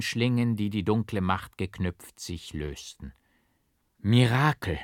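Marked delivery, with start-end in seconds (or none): 4.0-4.8 louder cries of Mirakel, Mirakel; crowd shouting. A narrator's reading. The crowd shouts about the miracle, loud. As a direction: shout it again and again. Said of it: "schrie das Volk immerfort".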